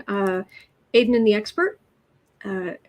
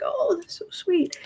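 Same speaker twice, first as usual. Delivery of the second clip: whispered flattered reply; 8 semitones higher, 4 dB quieter than usual. Retold or imitated. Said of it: "I was like".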